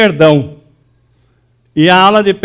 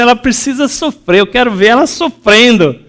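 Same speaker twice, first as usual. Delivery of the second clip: a touch of bitter grudge; mock hurt resentment; 5 semitones higher than usual. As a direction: quote a wounded person lightly. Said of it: "fala assim". (ressentimento magoado, leve)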